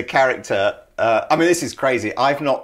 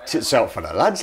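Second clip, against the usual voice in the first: rough stab at a Geordie accent; attempted Geordie accent; 2 semitones lower than usual. Shown as a demonstration. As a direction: have a go at sounding Geordie, from Newcastle. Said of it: "So how do you say it?".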